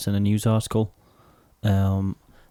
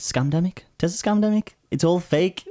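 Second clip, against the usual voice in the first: mock conspiracy believer; 8 semitones higher than usual. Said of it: "That's what my nan would say".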